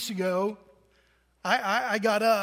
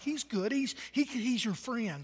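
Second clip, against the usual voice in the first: put-on calm a crying toddler gently; reassuring a child; 8 dB quieter than usual. Teacher reassuring scared preschoolers, soft and soothing. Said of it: "she's like".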